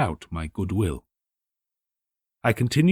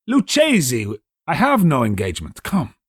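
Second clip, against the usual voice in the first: higher, louder, brushing the objection aside; eager insistence; 5 semitones higher, 4 dB louder than usual. Acted. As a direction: push past his excuses, keen to go. Drunk Fortunato insists on going.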